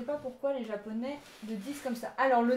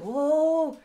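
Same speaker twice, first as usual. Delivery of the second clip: mock excited Japanese; 2 semitones higher, 6 dB louder, much slower than usual. Teacher mimicking Japanese people reacting to everything, exaggerated. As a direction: imitate an over-eager listener gushing. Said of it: "dès que tu leur parles".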